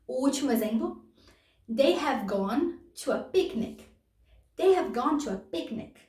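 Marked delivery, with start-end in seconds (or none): 1.7-3.8 slowed down for learners; careful slow model sentence. Shown as a demonstration. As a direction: lay each word out clearly. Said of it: "repeats example sentence".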